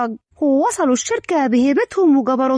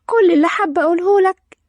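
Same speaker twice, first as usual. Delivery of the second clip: bashful, higher-pitched confession; a touch of coyness, pitched up; shy; 4 semitones higher than usual. Acted. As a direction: confess love with mild embarrassment. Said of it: "لورا بكسوف".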